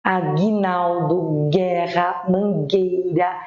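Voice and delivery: "Aguinaldo, guerra, mangueira" slow, stretching the hard gui and gue; syllable-by-syllable "Aguinaldo, guerra, mangueira". Shown as a demonstration. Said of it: "Pro Gi virar Gui".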